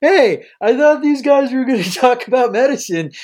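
lightly voiced confused listener. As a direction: complain as a puzzled audience member. Acts a listener complaining.

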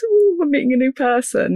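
put-on high, eager little-girl voice; a hint of an excited young girl. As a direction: lightly voice your shy inner child meeting someone new. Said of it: "that little girl part of me that goes".

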